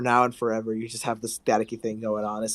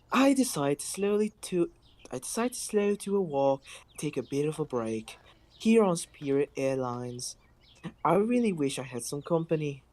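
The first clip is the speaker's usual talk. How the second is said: airline attendant voice. Acted. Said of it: "give her the Spirit Airlines voice".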